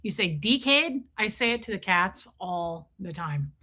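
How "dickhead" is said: "Dickhead" said with an Australian accent, "tikeɪd". Shown as a demonstration. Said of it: "if you wanna be Australian, you say".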